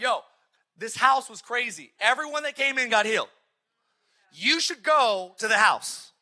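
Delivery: loud and slow, hammed-up rave; slow, loud mock hype about a healing house; excited rave. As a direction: sell it like a thrilled friend at Starbucks. Excited friend raving at Starbucks.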